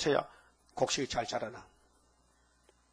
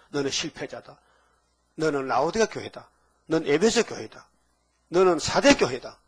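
God's rebuke, lightly voiced. Preacher voicing God condemning the big churches, mildly stern. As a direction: pronounce the verdict on the church, growing firm. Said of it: "그럽니다".

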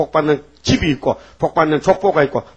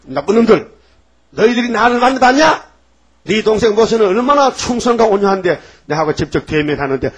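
angry scolding; 5 semitones higher, 4 dB louder than usual. Retold or imitated. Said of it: "하나님 막 화가 나서".

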